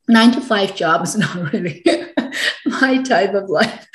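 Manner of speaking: real laughter through the words; laughing. Real, not acted. Guest telling the host why she left office work, laughing. Retelling her own thought, laughing.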